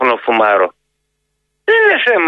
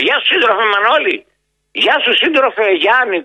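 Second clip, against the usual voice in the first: higher-pitched mock hail to a comrade; mock comradely greeting; 6 semitones higher than usual. Caller greeting party comrades by phone, lightly mocking.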